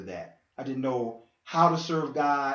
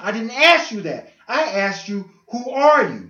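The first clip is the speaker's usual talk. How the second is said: retold insistence; 7 semitones higher, 9 dB louder than usual. Retold God pressing, louder.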